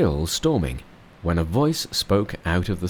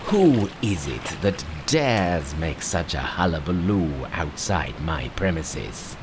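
a roused dragon bellows, lightly voiced; dragon crying out; 3 semitones lower than usual. Angry dragon answers Monkey, lightly voiced low cry.

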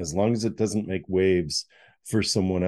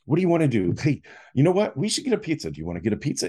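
higher, bright pitch-jumping offer; big brother cheering up his sad sibling; forced jolly; 5 semitones higher, much faster than usual. Retold or imitated. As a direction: overdo the cheer to lift someone's mood. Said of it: "he was trying to be really jolly for me".

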